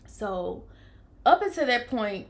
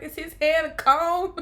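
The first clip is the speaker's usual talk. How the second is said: surprised; 7 semitones higher, 7 dB louder than usual. Retold or imitated. Shocked at feeling the head.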